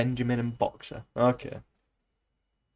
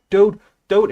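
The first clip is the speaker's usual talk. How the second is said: much higher and louder "dude, dude"; mock call to a friend; 8 semitones higher, 9 dB louder than usual. Calling out to a mate who ignores him, much higher and louder. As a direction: hail your mate, overdone. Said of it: "And it's like".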